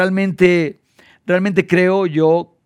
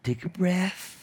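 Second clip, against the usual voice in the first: soothing; 12 dB quieter, much slower than usual. Retold or imitated. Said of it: "entonces le dije".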